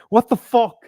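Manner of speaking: whispered, as if taken aback; a retold, whispered what the fuck; mock shocked whisper. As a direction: breathe it out like a startled stranger. Woman's shocked reaction, retold.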